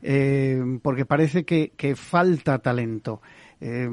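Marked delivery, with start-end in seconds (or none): none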